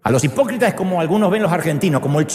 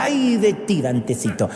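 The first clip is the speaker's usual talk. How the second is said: mom warning; 3 semitones higher than usual. Retold or imitated. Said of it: "Cuando mi mamá decía".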